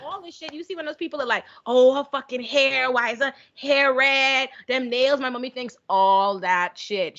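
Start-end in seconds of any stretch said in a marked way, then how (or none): 1.7-5.2 slow mocking hater voice.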